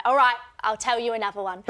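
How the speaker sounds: put-on light Cockney accent, laughing; a grandma's Cockney lilt. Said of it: "in her Cockney accent".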